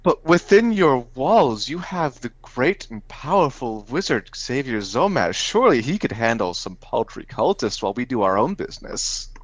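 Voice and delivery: grandiose mock flattery. Adventurer invoking a great wizard to a guard, grandiose. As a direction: lay on the grandeur, with swooping pitch.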